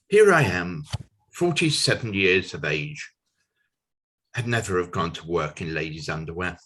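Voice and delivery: lightly performed verse, strong attack then falling; measured verse reading with pauses; comic poem recitation. Acted. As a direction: recite the silly poem line by line.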